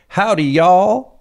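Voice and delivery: high loud slow Texan drawl; cowboy drawl. Shown as a demonstration. Foreign tourist greeting in a Texan drawl. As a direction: stretch it like a tourist playing cowboy. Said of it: "but they learned how to say".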